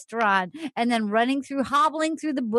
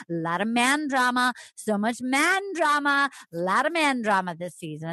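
light host impression; imitating Chris Harrison. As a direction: lean into the man drama line like a host. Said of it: "Chris Harrison kept trying to be like".

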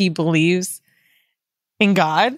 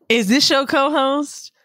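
quoting Mandy; 4 semitones higher, slower than usual. Retold or imitated. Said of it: "a clip of Mandy saying".

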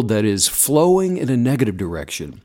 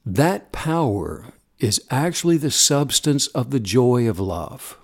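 guided meditation. Acted. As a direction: gently guide them into stillness.

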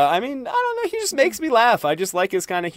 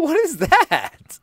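monkey call; 12 semitones higher, much slower than usual. Acted. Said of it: "are you doing like a monkey call".

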